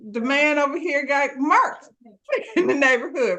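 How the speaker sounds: high, fast, laughing through the words; laughing mock gossip; laughing retelling. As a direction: giggle out the gossip. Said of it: "Gerald is like".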